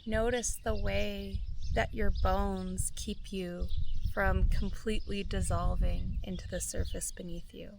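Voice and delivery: calm, measured meditation voice with long pauses; guided meditation. Real, not acted. Guide inviting listeners to feel gratitude for their bodies, calm meditation voice. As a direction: guide listeners gently inward, phrase by unhurried phrase.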